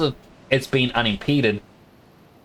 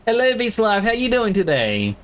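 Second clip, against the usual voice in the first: much higher, bright-pitched hello to chat; silly high greeting; 11 semitones higher than usual. Pretend. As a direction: greet the viewers in a squeaky put-on voice. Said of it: "Sound weird?".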